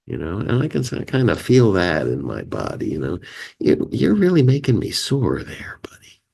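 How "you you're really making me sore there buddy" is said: higher-pitched mock annoyance, dropping away on the last word; acted soreness. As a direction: warn a buddy, mildly peeved. Acts out feeling sore at someone.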